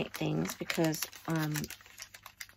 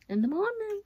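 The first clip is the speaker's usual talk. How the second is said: suddenly much higher, squeaky repeat; voice jumps up. Real, not acted. Vlogger repeating herself to camera, voice shooting up high. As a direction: echo it with the voice leaping up high. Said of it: "Why did my voice go up when I spoke?".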